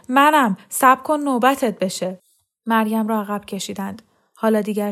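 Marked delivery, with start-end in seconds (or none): 0.1-2.2 slow, loud yell; shouting. A narrator's reading. Woman with bloody head yelling at Mariam, slow loud. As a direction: drag it out over the crowd noise. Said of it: "داد زد".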